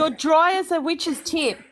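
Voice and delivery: slow Australian demonstration; Aussie model phrase. Shown as a demonstration. Aussie friend gives a phrase to repeat, slow Australian accent. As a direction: say it slowly in Aussie to be copied. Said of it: "say, you".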